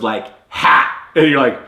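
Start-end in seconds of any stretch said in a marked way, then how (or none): 0.5-0.9 single sharp "ha"; imitated laugh. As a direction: mimic an abrupt one-note laugh. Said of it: "she does this laugh where she goes".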